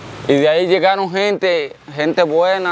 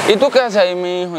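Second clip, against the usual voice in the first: mock yell, pitched up then dropping off; retold startled yell; 3 semitones higher, faster than usual. Mother sees her son at the door, mild retold yell. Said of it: "comenzó hasta a gritar".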